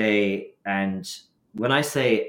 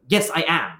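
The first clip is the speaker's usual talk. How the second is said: crying to anger; 8 semitones higher, 4 dB louder than usual. Retold or imitated. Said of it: "crying to anger".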